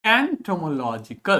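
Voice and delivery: एंटोमोलॉजिकल slowly, in syllables; pronunciation demo. Shown as a demonstration. Teacher reading the word before dissecting it, slow syllabic एंटोमोलॉजिकल. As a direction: sound out एंटोमोलॉजिकल piece by piece. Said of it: "यहाँ पर word पढ़िए".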